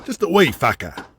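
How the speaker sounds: rough Australian boss boasting about his past; Australian tycoon bragging to his underling about hunting; brash Aussie hunter. Acted. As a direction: swagger through the outback tale, Australian. Jack recounts his outback youth.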